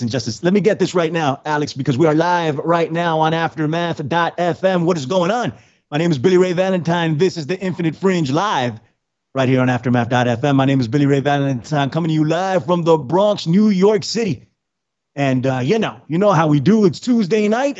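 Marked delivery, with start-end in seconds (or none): 3.3-14.5 fast, upbeat radio announcer; radio host intro. Acted. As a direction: announce the show like a DJ. Opens the live radio show.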